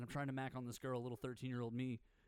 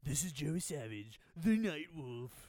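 late night radio DJ; slower than usual. Retold or imitated. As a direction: purr it like a nineties night DJ. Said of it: "You were like".

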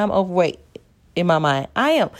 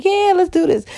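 mock pumped up; 12 semitones higher than usual. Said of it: "And then I'll be like".

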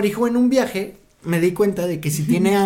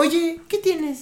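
much higher, very slow put-on accent; Lupita's fake accent; 9 semitones higher, 4 dB quieter, much slower than usual. Podcaster imitates Lupita questioning Mike in fake accent. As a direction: drag it out like a fake local accent. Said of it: "Lupita estaba así como".

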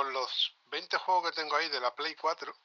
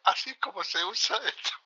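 imitating Antonio; 7 semitones higher than usual. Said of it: "tengo un videotutorial de Antonio".

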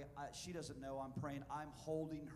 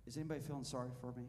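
fishing for sympathy; 3 semitones lower, much faster than usual. Pretend. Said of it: "Just trying".

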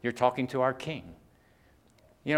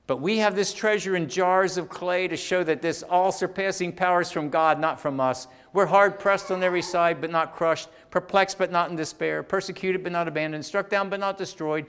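raised, driving recitation in paired phrases; scripture recitation; 4 semitones higher, 4 dB louder than usual. Acted. Preacher reciting scripture on treasure in jars of clay, emphatic. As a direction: recite the verse with steady emphatic contrasts. Reads scripture aloud to congregation.

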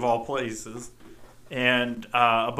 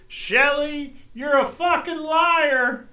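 higher, slowed mock shout of liar; retold yell; 12 semitones higher, 3 dB louder, slower than usual. Son imitating dad yelling at mom from the bedroom. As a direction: call it out from another room. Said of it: "you can hear Dad scream".

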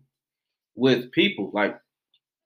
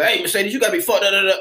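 higher, mock confrontational outburst; rah-rah jawing; 5 semitones higher, 4 dB louder than usual. Showing how a bad approach sounds, rah-rah jawing. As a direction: jaw at someone, loud and heated. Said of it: "it sounds like I'm rah-rah and I'm jawing at you".

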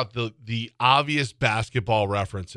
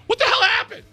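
very high-pitched squeal of disbelief; mock disbelief; 4 dB louder than usual. Co-host reacting to the betting line, high squealed disbelief. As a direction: squeal it way up high, comically aghast.

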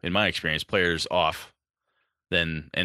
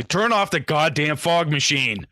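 exasperated demand; 8 semitones higher, 4 dB louder, slower than usual. Acted. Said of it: "somebody's gonna say".

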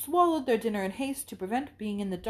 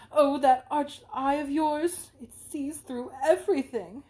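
higher, louder, slow playful gush; gushing tease; 5 semitones higher, 6 dB louder, slower than usual. Acted. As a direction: ham up the flattering friend. Isabella teases Catherine.

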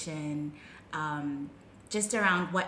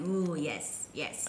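swooning listener; 3 semitones lower, 4 dB quieter, slower than usual. Retold or imitated. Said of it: "I can hear people listening now just going".

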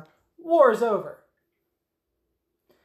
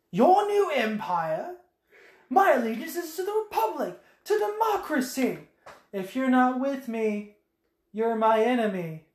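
hammed-up Obi-Wan defending the Republic; mock outrage at his old friend; indignant Obi-Wan; 5 semitones higher than usual. Obi-Wan's movie line quoted.

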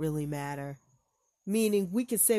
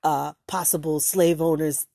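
heated; 5 dB louder than usual. Real, not acted. Heated rant over clip.

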